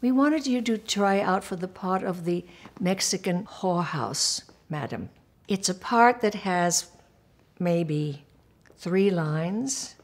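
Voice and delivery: lightly imitated English accent; a hint of a British director explaining. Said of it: "he's English".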